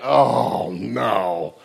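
drawn-out groan sinking low; mock dread. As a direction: let the horror sink in, pitch dropping. Brothers' horrified realisation, acted.

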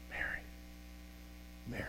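very soft, barely voiced name, lingering; tender call. Jesus to weeping Mary, a very soft tender call. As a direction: call her gently, like Jesus at the tomb. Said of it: "calls her by name".

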